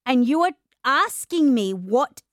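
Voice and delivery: slow, drawn-out, near-tearful disbelief; mock exasperated. New mum answering a stranger who asks what she does, slow near-tearful exasperation. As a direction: stretch each word out, half crying. Retelling reply to churchgoer.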